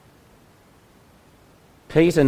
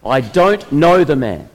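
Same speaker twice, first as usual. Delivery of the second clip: louder and slow, each word ground out; frustrated swearing; 3 semitones higher, 6 dB louder than usual. Acted. Peter, cornered by the crowd, frustrated and slow. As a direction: spit it out in exasperation. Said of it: "Peter swears in his frustration".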